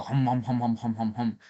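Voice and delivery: rhythmic "hum" chomping noises; mimicked munching. Streamer mimicking how a woman used to eat, mimicked munching. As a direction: imitate a greedy hippo gobbling. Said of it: "just like hungry, hungry hippo".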